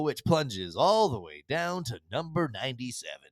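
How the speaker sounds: countdown DJ voice, slow and smooth; radio countdown host announcing the chart; Casey Kasem impression. Podcast host imitating a radio countdown, smooth DJ voice. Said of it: "That's my best Casey Kasem".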